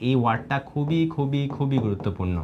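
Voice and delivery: each খুবই pressed hard and repeated for weight; heavy stress on খুবই. Shown as a demonstration. Tutor to students before the exam, pressing hard on every খুবই. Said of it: "যেই ওয়ার্ডগুলোতে অনেক বেশি জোর দিচ্ছি".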